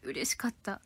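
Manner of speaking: soft whispered delight; whispered joy. Real, not acted. Telling viewers about praise from a junior, whispered delight. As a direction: breathe it out happily.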